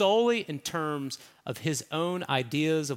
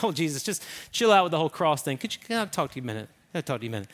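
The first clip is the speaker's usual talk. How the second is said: pleading Peter; 2 semitones lower, much faster than usual. Retold or imitated. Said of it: "He's like".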